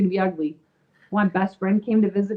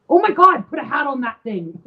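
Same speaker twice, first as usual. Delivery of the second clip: high, loud gasp breaking into laughter; laughing horror; 5 semitones higher, 3 dB louder than usual. Retold or imitated. New mom sees her lopsided newborn, laughing in horror. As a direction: blurt it out laughing in shock. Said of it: "I said".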